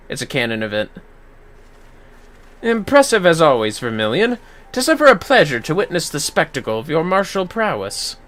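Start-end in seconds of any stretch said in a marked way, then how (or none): 2.6-8.2 lightly voiced admiring mage; praising the champion; courtly praise.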